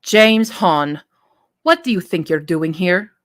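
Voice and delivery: put-on a light Middle Eastern accent; a subtle Middle Eastern accent. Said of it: "Her Middle Eastern accent wasn't thick".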